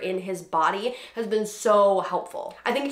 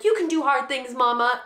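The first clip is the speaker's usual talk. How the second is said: higher, lightly voiced child cheering her on; a hint of an earnest little boy; imitating son encouraging; 5 semitones higher than usual. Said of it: "he'll be like".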